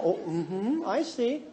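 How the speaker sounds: soft, placid murmur of acceptance; softly nod the ranting along; unruffled. Acted. Sister-in-law humoring a raging relative, unruffled. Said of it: "Never get upset".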